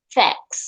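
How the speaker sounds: ফ্যাক্টস said as fecks with no t; ফ্যাক্টস, t vanished before the s; vanishing t. Shown as a demonstration. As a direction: drop the t in ফ্যাক্টস. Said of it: "vanishing টি".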